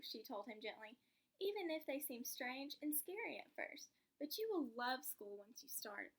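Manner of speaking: lively storybook read-aloud; reading to children. Acted. Teacher reading to a child, lively storybook voice. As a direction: bring the picture book to life for the class.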